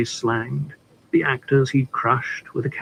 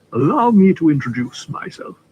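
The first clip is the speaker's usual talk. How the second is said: smooth, courteous gentleman introducing himself; a cultivated, winning voice for an ad; persuasive cultured voice; 4 semitones higher, 4 dB louder than usual. Acted. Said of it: "The voice was persuasive, cultured".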